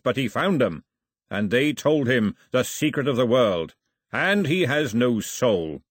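measured, ponderous proclamation; declaration. A narrator's reading. Milo proclaims Mao chief to the raiders, declaring. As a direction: declare it solemnly to the assembled fighters. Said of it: "he declared to the raiders".

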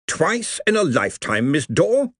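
genial senior wizard, pleased; beaming old wizard. Acted. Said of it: "Ridcully beamed".

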